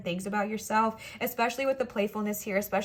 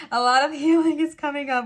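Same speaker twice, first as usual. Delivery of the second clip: sudden higher, louder silly voice; odd playful voice; 4 semitones higher, 7 dB louder than usual. Real, not acted. Card reader catching herself in a silly voice, playful. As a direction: slip into a goofy voice, pitched up and loud. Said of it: "Why am I talking like that".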